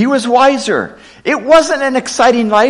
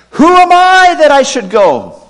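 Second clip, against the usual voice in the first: Moses' doubt; 6 semitones higher, 5 dB louder than usual. Acted. Preacher voicing Moses' doubt.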